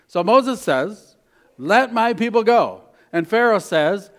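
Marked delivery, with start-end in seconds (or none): 1.6-2.8 a louder, higher call to let them go; bold demand. Acted. Moses demanding his people's release from Pharaoh, loud. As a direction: command it like a prophet.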